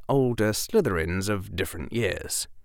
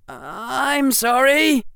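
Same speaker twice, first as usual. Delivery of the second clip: slow, high, loud apology dripping with contempt; insulting apology; 6 dB louder, much slower than usual. A narrator's reading. Harry apologizes to Derek but it sounds bleeding insulting. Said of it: "make that sound bleeding".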